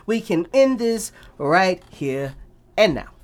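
slow, lightly put-on Wakandan accent. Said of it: "Did you just get Wakandan at the end?".

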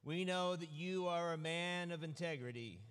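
slow, measured reading of the gospel; a preacher reading scripture to the congregation. Acted. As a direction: read the passage with weight, slowing on key lines. Reads gospel passage aloud.

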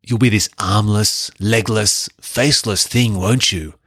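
a lightly voiced menacing symbiote, a touch off his own voice; casual hint of monster menace; quoting Venom with a hint of his voice. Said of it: "Venom says".

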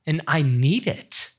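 quiet, choked-up confession; fighting back real tears; soft, teary apology; tearful. Real, not acted. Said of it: "see those tears?".

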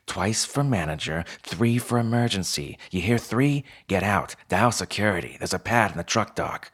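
lightly voiced fox boss drilling procedure; a hint of a brisk instructor; Pell. Fox co-manager teaching newcomer the alarm, brisk and bossy.

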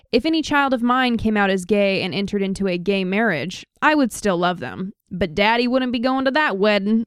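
lightly put-on Southern accent, reading his words. Host quoting the pizza shop owner, in a light Southern accent. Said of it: "That was my best Southern accent".

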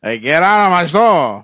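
mock angry shopkeeper yell; shopkeeper shouting. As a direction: chase him out of the store. Shopkeeper bit, shooing someone.

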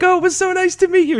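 very high, sugary imitation of a lovely voice; imitating a celebrity's charming goodbye, high and sweet; sweet pleasant voice. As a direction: mimic her sweet, gentle goodbye. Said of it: "the most pleasant voice in the entire world".

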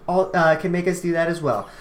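slurring with a numb tongue. Real, not acted. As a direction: talk round a numb mouth. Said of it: "You can't even talk".

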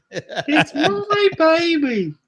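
high, slow, laughing wail of a put-on Australian; over-the-top falsetto wail of "It's my baby"; mock Australian mum. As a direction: ham up a distraught mother crying for her baby.

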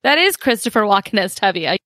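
ordinary talk, nothing marked

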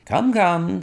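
gentle comforting come come; kindly. A narrator's reading. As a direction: soothe the sobbing young man. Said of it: "said Holmes kindly".

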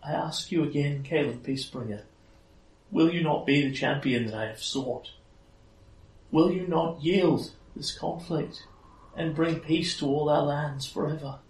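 high-pitched, beseeching fairy queen; Titania, pleading. Acted. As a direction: appeal to a champion in a high, measured voice. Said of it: "there is sadness in her voice".

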